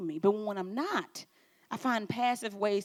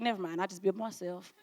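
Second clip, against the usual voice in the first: muttered retreat; 4 semitones lower, 8 dB quieter, faster than usual. Retold or imitated. Imitating withdrawn person.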